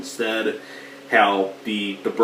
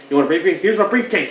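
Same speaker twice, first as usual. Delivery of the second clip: much higher and louder, swinging the bat; retold furious yell; 9 semitones higher, 5 dB louder, faster than usual. Hero turns on the gang with a bat, mock furious shout. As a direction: yell it as you strike. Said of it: "He's like".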